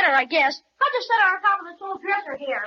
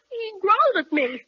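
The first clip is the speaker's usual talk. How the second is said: startled shout; 4 semitones higher than usual. Acted. Boy startled by bear growl.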